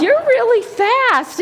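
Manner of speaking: high, loud, drawn-out gushing; retold cheer for a little kid; praising a toddler. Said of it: "I go".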